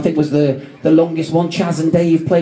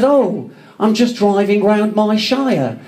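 slow, higher mock-accent impression; 6 semitones higher, slower than usual. Comedian retells a mate's cheeky reply, poor impression. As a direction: badly imitate a mate's accent, drawing it out. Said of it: "I'm sorry about the accent".

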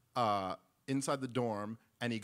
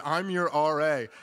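deadpan authority; 4 semitones higher, 10 dB louder than usual. Retold or imitated. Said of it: "He said".

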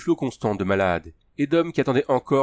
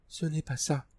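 Tania; 6 semitones higher, 8 dB quieter than usual. A narrator's reading. Tania shakes her head.

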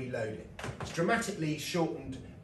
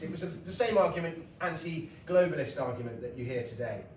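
ordinary delivery

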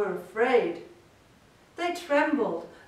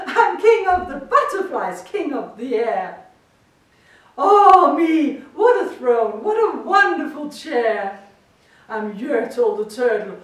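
gleeful boasting; 2 semitones higher, 7 dB louder than usual. A narrator's reading. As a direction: crow about everything below. Gloating king on high throne.

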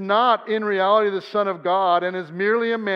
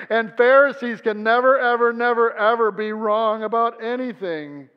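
sarcastic; 4 semitones higher, 4 dB louder than usual. Acted.

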